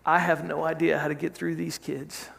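softly voiced plea, lightly acted; hushed, understated appeal to God; retold humble prayer. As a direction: pray it quietly, with pauses between phrases. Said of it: "he bows his head and he just says".

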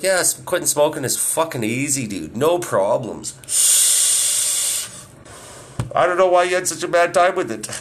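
teasing fake confidence; mock smug. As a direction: smugly brush off his struggle. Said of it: "We're like".

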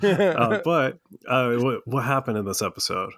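speaking with ice in the mouth; mouthful of ice, slightly muffled; mouth full. Real, not acted. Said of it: "I have ice in my mouth if I sound funny".

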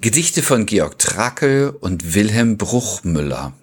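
slow, measured podcast intro read; episode title announcement. Acted. Host opens the poetry podcast for listeners, measured title announcement. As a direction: announce the titles slowly, with pauses.

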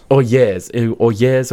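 British-accented sample words. Shown as a demonstration. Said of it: "you can apply the accent".

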